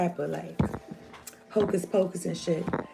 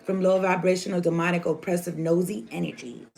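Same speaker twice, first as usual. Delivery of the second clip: prayer. Real, not acted. Reader praying to God and angels before the cards, earnest prayer.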